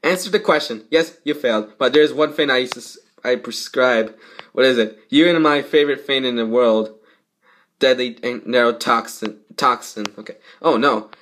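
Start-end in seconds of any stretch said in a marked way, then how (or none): none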